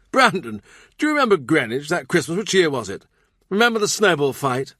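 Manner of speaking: put-on the king calling back old memories; fond king. A narrator's reading. King reminisces fondly.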